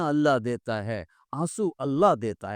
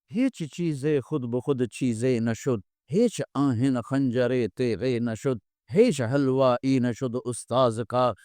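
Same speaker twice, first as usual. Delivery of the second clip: recited Persian verse; slower than usual. Acted. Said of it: "میرے شاعر کا کہنا ہے".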